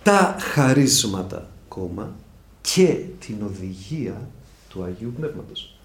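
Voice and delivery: slow, stressed dictation of the phrase. Shown as a demonstration. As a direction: say it slowly so they can write it. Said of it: "γράψτε".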